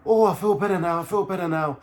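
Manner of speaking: high-pitched put-on voice for her; mock girlfriend voice. Girlfriend coming round and insisting she's better, in a high mock voice. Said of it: "she comes round".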